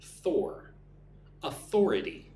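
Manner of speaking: authority with the weight on "Thor"; second-syllable stress. Shown as a demonstration. Teacher showing where the emphasis goes, authority stressed on "Thor". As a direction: isolate "Thor", then say au-THOR-ity. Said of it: "Put the emphasis on the second syllable".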